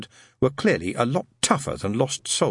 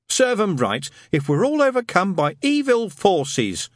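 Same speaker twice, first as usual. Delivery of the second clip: grumbling; 9 semitones higher, 3 dB louder than usual. Acted. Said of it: "his master grumbled".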